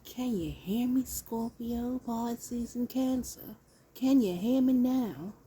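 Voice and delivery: lightly voiced ad guy, high and loud on the last ask; a hint of a phone commercial pitchman; Verizon commercial voice. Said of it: "Got me sounding like a Verizon damn well commercial".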